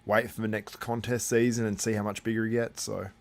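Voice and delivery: talking while crunching watermelon; chewing through the words; mouth full. Real, not acted. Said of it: "Sorry, I'm crunching watermelon right now".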